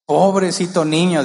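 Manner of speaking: hint of a grandmother fussing over a child; pitying grandmother. Grandmothers pitying a punished child, lightly acted pity. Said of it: "dicen las abuelitas".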